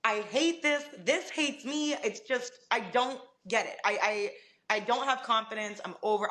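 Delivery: replaying a tearful phone call, half-hammed; a touch of fake sobbing despair; retold crying. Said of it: "bawling my eyes out, crying".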